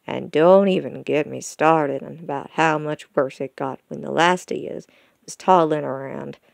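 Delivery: lightly voiced country dad reminiscing; a hint of a teasing rural father; folksy father, mildly exasperated. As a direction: gently grumble like a seasoned pa.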